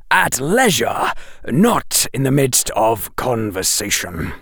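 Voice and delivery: stern professor instructing Harry; severe. Acted. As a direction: lay down the rule coldly. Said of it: "sounding rather severe".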